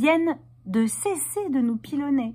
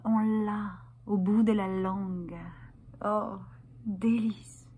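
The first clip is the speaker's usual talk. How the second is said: savouring pleasure; 5 dB quieter than usual. Acted. Performer savouring women's pleasure, soft and languorous. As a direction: linger on each phrase, fading to a whisper.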